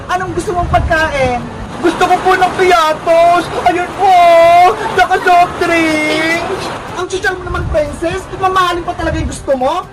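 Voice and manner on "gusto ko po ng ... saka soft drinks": tearful, drawn-out request; crying. Acted. Hungry girl tells the storekeeper what she wants, crying. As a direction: keep sobbing while asking for treats. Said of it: "huwag ka nang umiyak".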